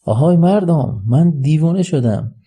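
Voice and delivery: high, slow proclamation to a crowd. Acted. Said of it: "با صدای بلندتر".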